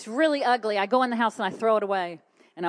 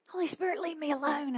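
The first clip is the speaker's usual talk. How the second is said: exasperated high plea in retelling; pleading; 8 semitones higher, faster than usual. Retold or imitated. Acted night-time plea to God.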